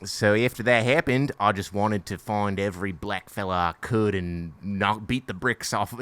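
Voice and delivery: put-on Liam Neeson quoted in an Australian accent; mock Australian telling of an interview. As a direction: do a rough Aussie accent. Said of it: "I'll just do it in Australian".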